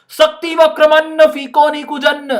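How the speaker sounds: mock-awed high recital; mock grand recital. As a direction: declaim it like impressive Sanskrit. Student's awe at tough Sanskrit.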